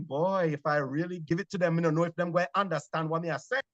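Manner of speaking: fast, broad island patois; thick Jamaican patois. Retold or imitated. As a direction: lay the Jamaican accent on raw. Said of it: "give them more island".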